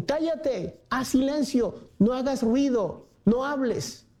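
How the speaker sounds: high, hushing scold; a crowd telling the blind man to hush; hushing scolders. Retold or imitated. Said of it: "Le decían".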